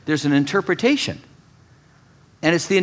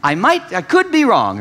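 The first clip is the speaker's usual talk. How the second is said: "could" leaned on in a higher, clear voice; demo for the congregation; 5 semitones higher than usual. Shown as a demonstration. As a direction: model the line for them to repeat. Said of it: "I wanna give you the opportunity".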